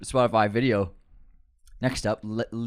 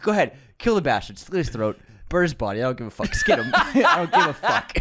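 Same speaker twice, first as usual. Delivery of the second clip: imitating Les Grossman; 4 semitones higher than usual. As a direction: bark it like Les Grossman, building with a laugh. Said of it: "that's what he says".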